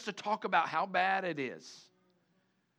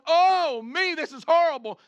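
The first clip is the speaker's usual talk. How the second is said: high, loud, whiny moaning; mock moan; 9 semitones higher, 9 dB louder than usual. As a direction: moan about how horrible it all is, hammed up. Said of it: "I hear more people moan".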